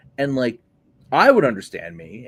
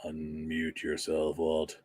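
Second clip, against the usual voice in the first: quiet aside; 9 semitones lower, 11 dB quieter, slower than usual. Real, not acted. Telling Walt to unmute.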